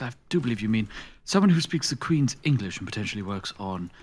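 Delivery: lightly voiced Queen's English, measured and proper; a touch of plummy radio presenter; posh English. Asked for a posh Brit, puts on Queen's English lightly. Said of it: "I don't think I can actually do posh guy".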